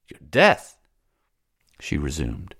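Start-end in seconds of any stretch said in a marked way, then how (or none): 0.1-0.8 incredulous. Acted. Salambo echoes his words incredulously.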